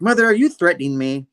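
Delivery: high, loud mock affront; imitated indignant daughter. Daughter challenging her mother's threat, mock indignation.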